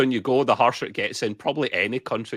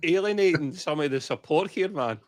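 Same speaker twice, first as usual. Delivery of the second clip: high-pitched protest; exasperated; 7 semitones higher than usual. Real, not acted. Co-host cornered by a question that may offend supporters, exasperated. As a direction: complain at being put on the spot, pitched up. Put on the spot, complains.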